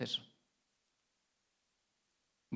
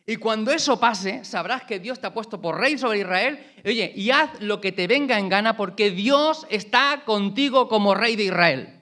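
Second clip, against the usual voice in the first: emphatic promise; 6 semitones higher, 6 dB louder, slower than usual. Acted. Samuel's promise, voiced by preacher.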